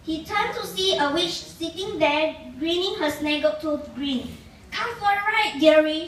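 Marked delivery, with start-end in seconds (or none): 4.7-5.6 higher, cackling witch. Acted. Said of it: "she cackled". 5.6-6.1 louder, cackled dearie like a witch; a witch's sly cackling dearie. Acted. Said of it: "she cackled".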